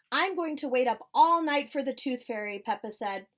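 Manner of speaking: lively storybook reading with voices; reading to children. Acted. Librarian reading Peppa Pig aloud to the children. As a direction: read it brightly to a circle of kids.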